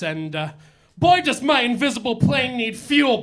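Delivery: put-on hammy old-school lounge comic voice; old borscht belt comic. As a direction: work the room like a cheesy nightclub comic. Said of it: "acerbic comedian".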